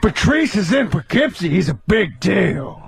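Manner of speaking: lightly voiced film-star caricature; Al Pacino. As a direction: stretch the ending like a theatrical actor. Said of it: "When did Al Pacino become".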